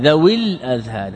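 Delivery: ذوي joined to الأذهان without its ياء; vowel shortened before article. Shown as a demonstration. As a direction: say ذوي الأذهان as "dhawil-adhhan", linked. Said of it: "إذن الياء هنا محذوفة".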